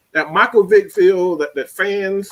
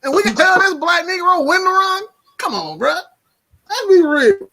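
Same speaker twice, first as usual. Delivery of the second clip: heated rant; 10 semitones higher than usual. Real, not acted. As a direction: rant hard, getting worked up. Heated rant about Dak.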